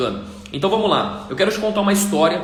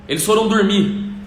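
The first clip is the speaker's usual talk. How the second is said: ordinary delivery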